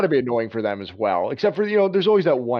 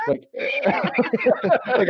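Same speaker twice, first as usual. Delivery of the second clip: laughing while talking; 11 semitones higher than usual. Real, not acted.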